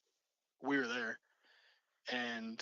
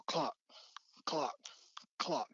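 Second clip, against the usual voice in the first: imitated knocks; 2 semitones higher, slower than usual. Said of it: "really hard knocks".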